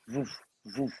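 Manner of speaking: imitated thud. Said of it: "all I hear is".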